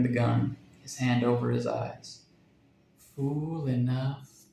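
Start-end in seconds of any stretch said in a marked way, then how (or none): 3.0-4.5 very slow, softer taunt; mocking parrot. A narrator's reading. Parrot taunts Jack after the shot, slow sneer. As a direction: drag it out as a sneering bird. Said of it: "said the parrot, and laughed".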